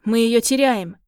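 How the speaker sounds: urgent loud shout. A narrator's reading. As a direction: call it out in alarm. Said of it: "как кто-то кричит".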